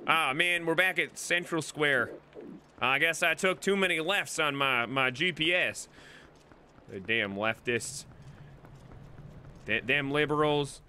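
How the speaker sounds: put-on lightly grumbling country accent. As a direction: gripe like a country-accented old-timer. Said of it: "in this accent".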